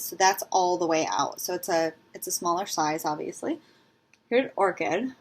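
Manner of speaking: muffled by cotton in her mouth. Real, not acted. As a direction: talk around a mouthful of cotton. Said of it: "I've got cotton in my mouth".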